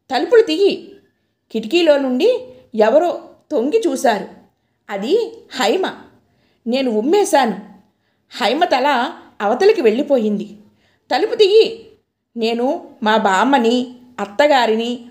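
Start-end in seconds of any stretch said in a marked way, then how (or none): 0.1-1.0 a first raised yell to open the door; shout. Retold or imitated. Locked-in woman shouts to be let out, mildly raised. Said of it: "నేను మళ్ళా అరిచాను". 11.1-11.9 much higher and louder, frantic yell; desperate yell. Retold or imitated. Locked-in woman screams at the door, frantic high yell.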